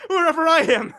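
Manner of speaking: laughing through the threat; a condemned man's mocking laugh breaking in; bitter laughter. Condemned man laughing bitterly at the judge who sentenced him. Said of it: "I'll be laughing fit to burst".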